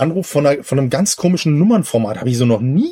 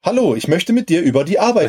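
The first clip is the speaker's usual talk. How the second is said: robot voice; 3 semitones higher than usual. Retold or imitated. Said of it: "mit so einer schlechten Roboterstimme".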